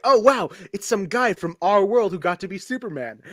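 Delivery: delighted fan wonder; excited. Retold or imitated. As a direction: say it like a thrilled fan. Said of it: "it's cool, like".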